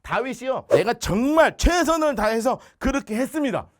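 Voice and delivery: ordinary talk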